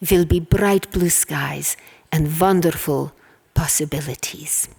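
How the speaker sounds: put-on a light Hungarian accent, gently reassuring. Daughter recalls her father comforting her, mild Hungarian accent. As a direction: imitate a fond father's Hungarian accent, understated. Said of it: "in his charming Hungarian accent".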